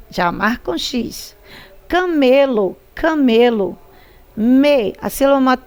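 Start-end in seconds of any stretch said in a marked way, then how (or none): 1.9-3.8 "Camelo" with the middle "me" lengthened and leaned on; stress on ME. Shown as a demonstration. Teacher showing pupils the stressed syllable in "camelo", stress on "me". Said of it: "tônica é o me". 4.3-4.9 "Me" held long and firm; stressed syllable demo. Shown as a demonstration. Teacher isolating the tonic syllable for pupils, "Me" stressed. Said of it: "tônica é o me".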